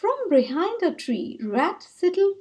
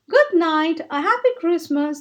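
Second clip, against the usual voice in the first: called out; 4 semitones higher, 4 dB louder than usual. Acted. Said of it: "they called".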